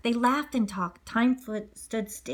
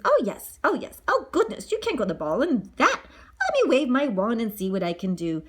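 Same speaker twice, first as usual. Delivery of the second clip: fairy godmother. Acted.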